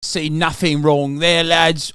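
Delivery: unhurried mock British bloke, slow; British accent. Mocking UK police shrugging at Tate, slow British accent. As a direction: drawl it out like a lazy London copper. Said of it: "UK police literally was just like".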